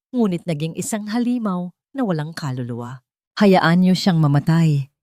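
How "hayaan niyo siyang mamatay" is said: loud, slow and cold; cold command. Acted. Cruel woman condemning the sick boy, loud and cold. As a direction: order it with no mercy.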